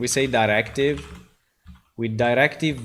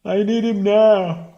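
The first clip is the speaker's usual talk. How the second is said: higher, louder, slow theatrical demand; mock dramatic demand; 9 semitones higher, 7 dB louder than usual. Dev jokingly summoning the voiceover guy, theatrical. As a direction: declaim it like a stage hero.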